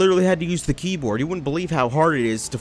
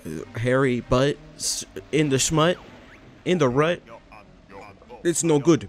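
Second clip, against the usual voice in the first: a light hint of a shaman voice; Mumbo Jumbo. Gamer imitates Mumbo Jumbo reading dialogue, lightly. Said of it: "That's how Mumbo Jumbo talkie".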